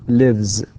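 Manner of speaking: "Lives" closing on a buzz; voiced Z ending. Shown as a demonstration. Teacher showing how it is pronounced here, voiced ending. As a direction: voice the final sound of "Lives" as z. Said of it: "with z".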